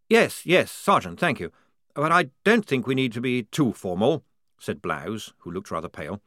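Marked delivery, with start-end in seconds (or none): 0.1-4.2 higher, polite and flustered; fussy young officer. Acted. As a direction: wave off formality. Blouse voiced.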